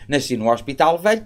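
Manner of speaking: ordinary talk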